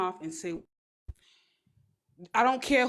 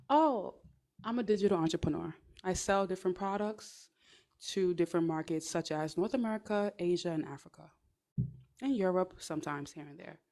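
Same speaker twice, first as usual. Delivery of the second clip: a lightly voiced calm entrepreneur, softer; demo polished answer; 2 semitones lower, 5 dB quieter than usual. Shown as a demonstration. Showing viewers the right reply, lightly voiced calm entrepreneur. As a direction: answer smoothly and settled. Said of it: "So they ask".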